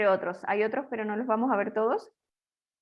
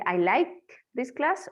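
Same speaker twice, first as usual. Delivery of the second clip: correct example; slower than usual. Shown as a demonstration. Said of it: "Puedo decir".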